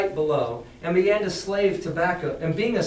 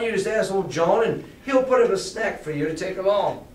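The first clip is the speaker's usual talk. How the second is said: lightly voiced friendly pirate. Pirate cook coaxing Jim ashore, lightly jolly sailor voice. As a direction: sweet-talk the boy as a cheery pirate. Teacher voices Silver to the boy.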